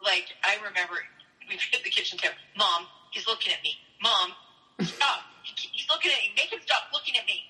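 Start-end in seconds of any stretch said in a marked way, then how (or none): 2.6-7.5 whiny tattling little sibling. Retold or imitated. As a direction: whine like a tattling little kid. Kids fighting at kitchen table.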